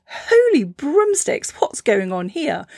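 high, slow startled squeak, settling at the end; a tiny seed jolted awake. Acted. Seed cracking open in alarm, high and startled.

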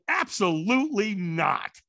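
slow firm no; flat refusal. Retold or imitated. Refusing the firewalk to the stranger, slow firm no. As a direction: shut it down, slowly. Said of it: "I said it about that tone".

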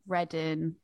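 "Reading" with the final g dropped, ending in -in. Shown as a demonstration. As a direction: say "Reading" casually, clipping -ing to -in.

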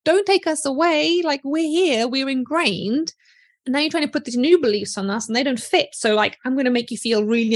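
put-on old beliefs begging not to be replaced; clingy gremlin. Coach voices old beliefs resisting new affirmations. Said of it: "your current beliefs going like".

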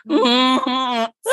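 strangled deer bleat broken by laughter; imitated deer cry. Describing the blind deer's awful cry, mock bleat. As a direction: mimic the awful baying deer sound, half laughing. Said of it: "awful sound".

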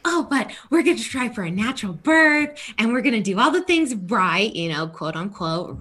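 high, fast, sing-song self-parody; mock naive optimism. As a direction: send up your old eager self. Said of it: "and I'm like".

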